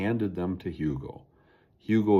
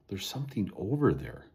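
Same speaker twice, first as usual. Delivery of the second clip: hushed; 5 dB quieter than usual. Acted. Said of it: "Boone whispered".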